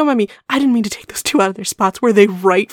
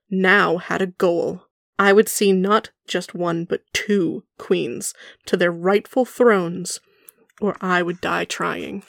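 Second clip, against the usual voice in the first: dramatic reading; 2 semitones lower, 4 dB quieter than usual. Shown as a demonstration. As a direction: read it like a grand closing line. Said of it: "His final paragraph".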